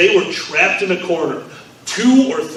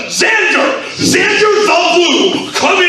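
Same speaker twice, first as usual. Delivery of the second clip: hammed-up dad call; 10 semitones higher than usual. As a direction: call him in like an angry dad. Mock dad calling out.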